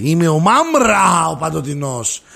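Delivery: lightly hammed-up cartoon villain, drawn out; Μάμρα. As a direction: stretch the name in a mock-grand proclamation, then fall away. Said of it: "Και είναι σαν το Μάμρα". (ελαφρά θεατρική μίμηση κακού από καρτούν)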